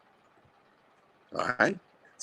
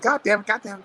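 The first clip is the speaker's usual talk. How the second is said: retold exasperated yell, higher and louder; mock angry outburst; 13 semitones higher, 5 dB louder, faster than usual. A retold Jonathan Banks yelling in protest over the room. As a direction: act out the fed-up protest.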